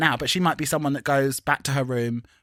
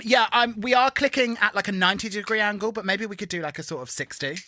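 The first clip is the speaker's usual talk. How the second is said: put-on finicky suggestion in a raised pitch; mock pedantic; 7 semitones higher than usual. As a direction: imitate a pedant politely correcting the dance. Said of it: "it was so pedantic".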